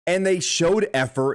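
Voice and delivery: ordinary delivery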